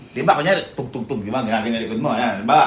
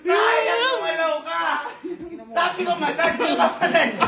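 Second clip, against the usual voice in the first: excited shout; 11 semitones higher, slower than usual. Real, not acted. Friend lost the challenge, shouting.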